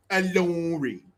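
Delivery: put-on savoring "lorry" in a British accent; mock British accent. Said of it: "It's just funny to say".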